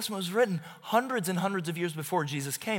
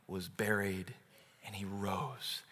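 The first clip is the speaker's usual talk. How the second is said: much softer, lower, slow and solemn; hushed; 8 semitones lower, 12 dB quieter than usual. Acted. Pastor closing the sermon to the congregation, hushed and solemn. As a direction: drop the voice low for the creed.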